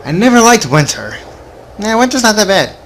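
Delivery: normal talking voice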